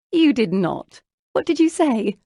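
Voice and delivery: loud, high, gossipy incredulity; delighted disbelief. A narrator's reading. Lucy hears Jane's excuse to Isabella, in delighted disbelief. Laughing friend hears scandalous escape.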